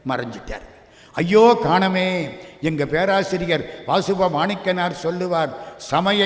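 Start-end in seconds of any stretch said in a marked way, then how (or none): 1.1-2.3 anguished wail. Acted. Devotee loses the vanished Lord.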